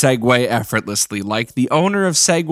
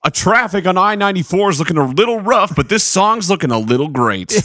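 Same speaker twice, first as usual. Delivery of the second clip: radio DJ voice. Acted. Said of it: "radio D J voice".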